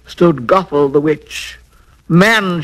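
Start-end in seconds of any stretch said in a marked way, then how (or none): 2.1-2.6 mildly raised witch's cry. Acted. Witch catches the man in her garden, restrained cry. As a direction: call out sharply, with some restraint. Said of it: "she cried".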